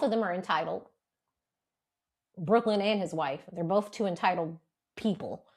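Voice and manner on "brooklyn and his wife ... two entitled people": low, measured wording; careful. Real, not acted. Host judges celebrity couple on a new show, carefully. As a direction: pick each word carefully, sinking lower. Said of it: "I said that carefully".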